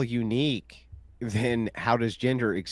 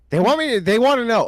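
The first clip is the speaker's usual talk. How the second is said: teasing; 9 semitones higher, 7 dB louder than usual. Real, not acted. Teasing guest with chat questions.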